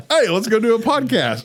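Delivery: laughing. Retold or imitated. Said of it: "We're like".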